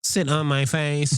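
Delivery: slow movie quote. Retold or imitated.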